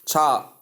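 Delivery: "cha-" cut off without L or D; mispronunciation demo. Shown as a demonstration. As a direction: show the error "cha-", ending missing. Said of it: "Common error".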